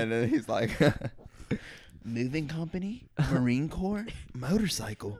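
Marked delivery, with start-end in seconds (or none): 2.0-5.2 mock old man. Reciting the old man's list.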